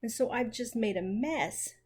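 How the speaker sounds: a touch of a groan, regretful; sorry and rueful, lightly groaning; understated remorseful groan; mild groan. Acted. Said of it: "groaned poor Jo".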